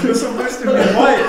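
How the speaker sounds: laughing. Real, not acted. Host cracking up at answer.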